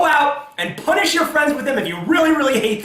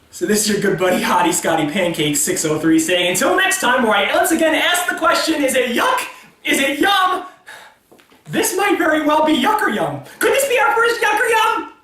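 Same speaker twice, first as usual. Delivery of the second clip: show host sign-off. Acted.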